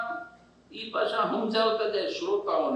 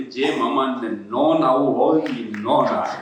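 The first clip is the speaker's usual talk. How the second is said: 1 deadpan host punchline; 8 semitones lower, 5 dB louder than usual. Retold or imitated. Host's punchline, imitated.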